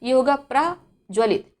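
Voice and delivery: प्रज्वलित said a bit slowly and clearly; teacher reading प्रज्वलित carefully; careful enunciation. Shown as a demonstration. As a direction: spell out प्रज्वलित with a single ज. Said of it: "अब यहाँ पे पढ़ें".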